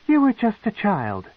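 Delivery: high, intrigued noblewoman; a proud matron, curious and cold; matron's voice. A narrator's reading. The matron questions the captive, high and probing.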